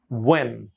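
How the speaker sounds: "when" with a rounded w, "wen"; rounded-lip pronunciation. Shown as a demonstration. Teacher modelling "when" with a round mouth. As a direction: round the lips into "when", falling. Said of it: "মুখটা গোল হবে".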